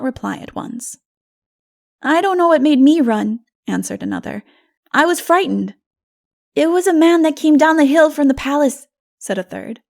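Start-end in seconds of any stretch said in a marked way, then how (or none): 2.0-5.7 put-on higher, louder little boy; a small one admitting fear; child voice. Child answers the narrator, high and sheepish. 6.5-8.9 put-on higher, louder child's report. Third child reports the man, high and eager.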